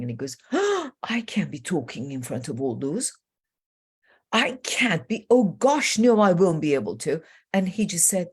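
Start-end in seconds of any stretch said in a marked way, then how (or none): 0.5-7.2 mock-flustered refusal; acted stage fright. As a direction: gasp and protest, imitating a nervous speaker. Acts out a speaker's stage fright.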